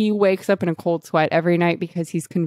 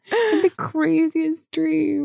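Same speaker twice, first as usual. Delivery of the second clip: dazed waking; 9 semitones higher, much slower than usual. Pretend.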